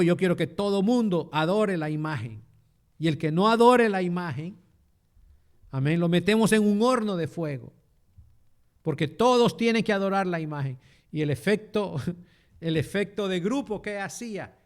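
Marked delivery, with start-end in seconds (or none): 0.0-10.8 a hint of a commanding king, louder; king's decree. Preacher voicing the king ordering all to worship, loud and commanding. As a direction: proclaim it like a stern king.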